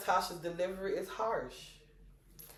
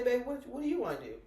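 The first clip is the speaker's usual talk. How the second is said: gentle coaxing; 2 semitones higher, faster than usual. Retold or imitated. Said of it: "I say".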